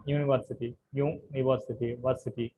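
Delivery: యూనివర్సిటీ with వర్ stressed; stress on third syllable. Shown as a demonstration. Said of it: "The third syllable is accented".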